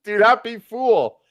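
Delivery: slow stern pronouncement; stern character voice. Acted. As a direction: deliver it slow and grave. Reads Thomas Jefferson's line.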